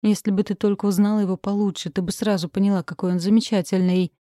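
ordinary delivery, nothing marked

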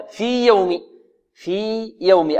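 في يوم with a long ī, then a distinct y; separated ya. Shown as a demonstration. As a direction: hold في, then begin يوم cleanly. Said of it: "أبن يعني أظهر". (في يوم بإظهار الياء)

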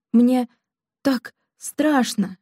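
very slow, barely breathing, lightly scared; breathless whisper. A narrator's reading. Girl confessing her fear to the marquis, mild breathless hush. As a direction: stretch it out as if short of air. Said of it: "едва дыша прошептала Мариетта".

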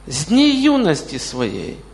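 ordinary talk, nothing marked

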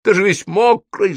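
high, alarmed fire-demon warning; hissing. A narrator's reading. Fire demon shrinks from wet wizard, hissing warning. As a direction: warn him off with a touch of hiss. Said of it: "зашипел он".

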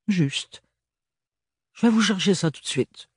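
put-on high young maid with a thick provincial French accent. A narrator's reading. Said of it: "L'accent très prononcé de l'adolescente".

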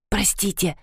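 put-on a hushed sorry from the girl; whisper. A narrator's reading. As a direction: whisper it so nobody hears. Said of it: "зашептала девушка".

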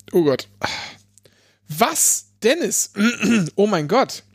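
choking, clearing the throat; talking through a swallowed-wrong cough. Real, not acted. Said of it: "Ich verschlucke mich".

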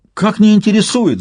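громкий высокий вскрик мальчишки; возмущённо завопить; вопль. A narrator's reading. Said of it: "завопил Славик". (мальчик вопит, возмущённый отказом)

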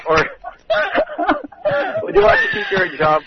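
breaking into laughter mid-question; high laughing squeal through the words. Real, not acted. Laughing while asking.

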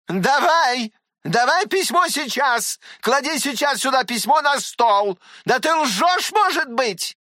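high, loud demanding scold; в бешенстве требуя; raging. Acted. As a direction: storm at him for the letter. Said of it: "буянила Татьяна Павловна".

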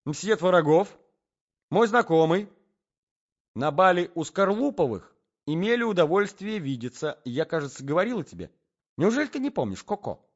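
high, loud social introduction; society lady. Acted. Lady introduces her acquaintance to husband Koko, effusive.

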